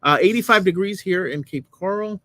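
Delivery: news anchor voice. Pretend. Weather report like anchor.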